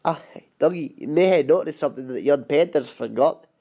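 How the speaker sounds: light Scottish accent, lightly put on; a hint of a Scottish railwayman; Scottish brogue, understated. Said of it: "that's my Donald Douglas voice".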